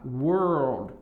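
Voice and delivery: World with a curled R; careful English World; English world demo. Shown as a demonstration. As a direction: curl the R in World. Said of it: "tem que fazer isso".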